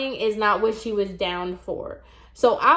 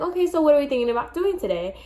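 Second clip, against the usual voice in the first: quick, higher-pitched client consultation; customer-service question; 5 semitones higher, much faster than usual. Retold or imitated. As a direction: breeze through it like a chirpy stylist. Acted stylist consulting the client.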